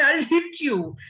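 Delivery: mock threat from a kid aping the dad; child copying the father. Child mimics scolding father, light mock threat. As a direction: copy the dad's threat like a cheeky child. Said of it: "pick up a little stick and say".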